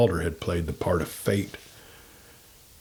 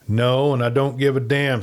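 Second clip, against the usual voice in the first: free and careless; 3 semitones higher than usual. Retold or imitated. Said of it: "free and careless".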